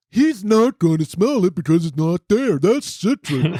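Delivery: a light dopey put-on voice for Todd, laughing at the end; mock the smug friend; hint of a know-it-all buddy; stupid voice imitation. Mocking Todd's voice again.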